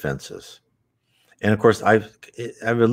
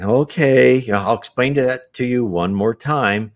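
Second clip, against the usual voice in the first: patient parent; 6 semitones higher than usual. Acted. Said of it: "you can just kinda sit back".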